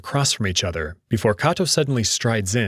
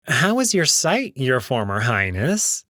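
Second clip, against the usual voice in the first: smug jackal voice; 2 semitones higher than usual. Acted. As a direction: purr it out like a smug prince. Neferu taunts the blind wolf.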